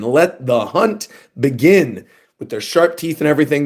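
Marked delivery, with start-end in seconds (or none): 0.0-2.1 evil dragon lord. Retold or imitated. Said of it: "these evil celestial dragons saying".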